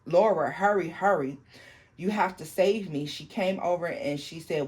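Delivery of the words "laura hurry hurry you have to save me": urgent call to her sister, a little louder; calling for help. Retold or imitated. Girl yelling for her sister to save her from the devil, urgent call. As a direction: cry out to Laura to hurry and save her.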